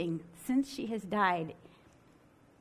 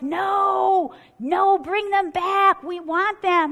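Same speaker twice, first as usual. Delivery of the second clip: higher, louder mock crowd yell; crowd shouting; 7 semitones higher, 7 dB louder, much slower than usual. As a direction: shout it like the audience demanding them back.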